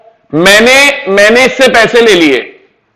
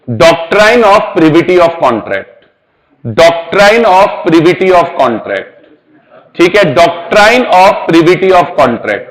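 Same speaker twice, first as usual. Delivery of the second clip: slow deliberate dictation; much slower than usual. Shown as a demonstration. Teacher spells out the term.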